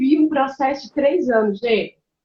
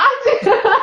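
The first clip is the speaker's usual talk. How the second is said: laughing; 11 semitones higher than usual. Real, not acted. Risada no meio do relato.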